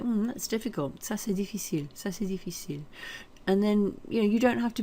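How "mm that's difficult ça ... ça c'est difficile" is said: thoughtful hesitation. Shown as a demonstration. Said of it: "So know how to say".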